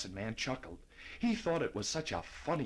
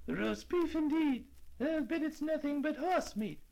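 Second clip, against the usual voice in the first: put-on scoffing old lady. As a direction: sniff at the roast beef.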